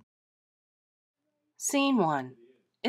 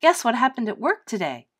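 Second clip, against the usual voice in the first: louder and higher, bursting with news; eager to share her news, louder and higher; excited; 5 semitones higher, 5 dB louder than usual. Acted. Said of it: "speaking excitedly".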